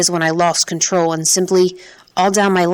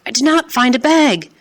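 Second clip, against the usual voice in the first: sobbing; 7 semitones higher, 3 dB louder than usual. Acted. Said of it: "I started to sob".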